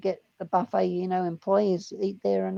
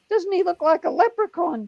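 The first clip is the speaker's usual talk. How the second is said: high, called-out jeer; mock calling out; 8 semitones higher, 4 dB louder than usual. Cop jokes to his colleagues, high mock call. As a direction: call it over to your mates. Colleague calls out to other cops.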